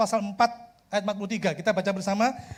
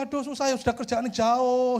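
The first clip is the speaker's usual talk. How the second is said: mock lament, slowing down; lightly acted woe; imitated complaining; 3 semitones higher than usual. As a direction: moan like the hard-done-by friend. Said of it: "teman saya ini mengeluh".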